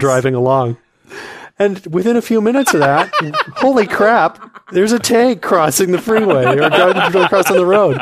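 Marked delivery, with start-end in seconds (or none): 1.6-8.0 laughing through the words in disbelief; giggling while recalling the tank. Real, not acted.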